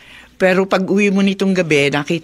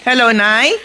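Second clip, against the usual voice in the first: phone greeting; 6 semitones higher, 5 dB louder than usual. Acted. Answering mother-in-law's phone call.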